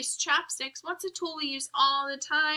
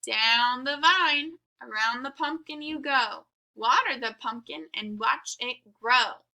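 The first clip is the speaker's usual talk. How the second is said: sing-song rhyme. Shown as a demonstration. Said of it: "So it says".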